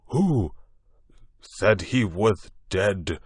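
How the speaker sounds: a blurted hiccuping question; startled drunk question. A narrator's reading. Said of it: "said this monster".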